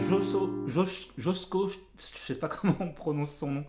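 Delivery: stumbling over a name with a numb mouth; anesthetized mouth. Real, not acted. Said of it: "avec une bouche anesthésiée".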